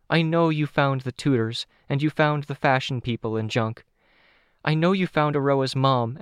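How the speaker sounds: put-on high-pitched, earnest girl's voice; earnest young Candy. Candy thanks Tattletale for her help, high and earnest. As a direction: give heartfelt credit in a high young voice.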